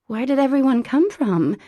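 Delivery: high, loud startled question; surprised. A narrator's reading. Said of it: "she asked".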